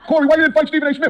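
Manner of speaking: put-on accusing question; mimicking nagging fans. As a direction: quote the crowd pestering him. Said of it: "just like everybody was saying".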